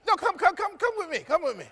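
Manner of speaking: high pleading cries. Acted. The girls beg Naomi to take them along, high pleading. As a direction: beg to go with her, pitched high.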